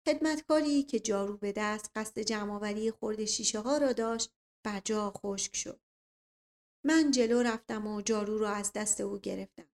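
ordinary delivery, nothing marked

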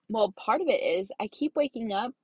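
talking through a burp; slight burp in the voice. Real, not acted. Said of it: "Sorry, I'm burping a little bit".

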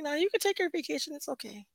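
high, then fading to soft; brushing it off in a small voice; mock brave reassurance. Telling therapist to go on vacation, high and fading. Speaker voicing own reassurance.

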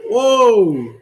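high, loud laughing exclamation. Real, not acted. Reacting to a slip on air.

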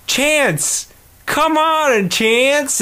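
high, ringing call across the yard. Retold or imitated. Boy calling for his lost dog, high and ringing.

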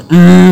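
mimicking a long "hmm"; imitated moan. Showing Amat the earlier noise, imitated moan. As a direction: copy the noise as a drawn-out hum. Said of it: "kayak gitu tuh, Mat".

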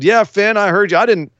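lightly voiced cocky heel running his mouth; Cameron Grimes heel taunt.

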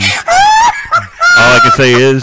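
gloating. Real, not acted. Gloating after winning.

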